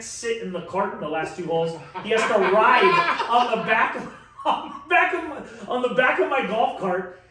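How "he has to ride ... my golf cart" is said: loud, high, laughing through the words; cracking up. Real, not acted. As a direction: laugh so hard the sentence keeps restarting. Cracking up at his own story.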